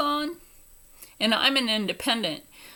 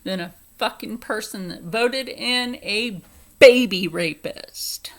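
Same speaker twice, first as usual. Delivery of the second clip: angry comeback swelling louder; retold angry retort; 5 dB louder than usual. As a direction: fire it back and hit the ending hard. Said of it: "And I'm like".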